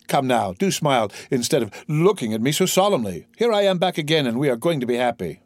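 lightly voiced cheerful young man, lifted pitch; eager young son. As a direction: coax an old father to cheer up.

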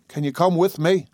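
high, anxious and urgent; agitated whisper. A narrator's reading. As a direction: plead in a tense, hushed rush. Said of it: "she inquired in an agitated whisper".

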